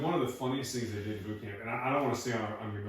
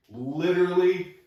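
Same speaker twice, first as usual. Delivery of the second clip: laughing; 3 semitones higher, 9 dB louder, much slower than usual. Real, not acted. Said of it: "I'm laughing".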